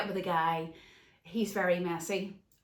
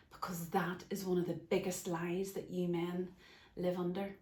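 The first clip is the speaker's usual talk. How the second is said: real emotion welling up, near whisper; emotional hush; 5 dB quieter than usual. Real, not acted. Speaking to men about the lie of failure, emotional hush. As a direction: let the feeling catch in a hushed voice. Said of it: "Ah, I'm getting emotional".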